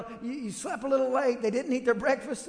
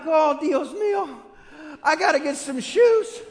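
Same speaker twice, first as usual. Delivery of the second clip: mock panic; 3 semitones higher, 6 dB louder than usual. Parent panics over missing shoes.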